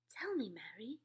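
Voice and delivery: tight, shaky-breath whisper; strangled whisper. A narrator's reading. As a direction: whisper as if choked with shock. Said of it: "strangled sort of whisper".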